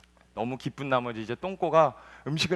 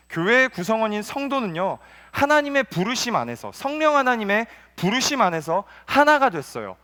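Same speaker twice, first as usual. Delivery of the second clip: raised, insistent preaching; 7 semitones higher, 7 dB louder than usual. Acted. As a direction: drive the point home to the congregation. Preaching unity.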